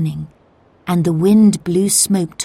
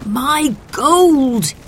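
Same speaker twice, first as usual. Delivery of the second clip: high, upset cry; shouting; 7 semitones higher, 4 dB louder than usual. A narrator's reading. Baker outside his burning building, shouting in upset. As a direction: cry out in distress over a loss. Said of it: "he shouted".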